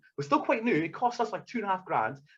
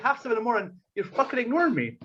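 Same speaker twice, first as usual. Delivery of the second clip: mildly annoyed, pitch lifted; retold irritation with a touch of complaint; 3 semitones higher, faster than usual. Driver grumbling at his silent passenger, mildly annoyed. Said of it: "starting to get fucking annoyed".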